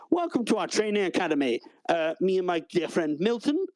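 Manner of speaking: a hint of an eager academy host; chirpy academy host. The clerk welcomes new recruits to the academy, chirpy.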